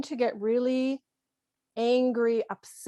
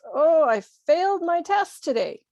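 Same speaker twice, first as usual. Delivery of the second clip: put-on a higher-pitched child reporting in; hint of a child, pitched up; lightly voiced child; 6 semitones higher, 4 dB louder than usual. Child to parent after failing a test, lightly acted child. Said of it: "your child comes home and says".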